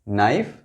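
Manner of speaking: नाइफ starting on N, the K unspoken; silent K. Shown as a demonstration. Teacher repeating the word after explaining it, नाइफ with silent K. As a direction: model नाइफ for learners, dropping the K entirely. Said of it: "silent है".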